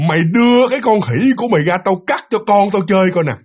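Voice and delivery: lightly acted ghostly demand; projected, menacing ghost line, mildly played; ringing ghost voice. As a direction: imitate a ghost woman calling out. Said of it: "nói cái giọng mà vang".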